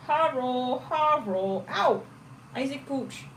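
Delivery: high, silly voice for the dog; playful pet voice. Real, not acted. Playing with her puppy, high silly voice. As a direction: play with the puppy in a goofy tone.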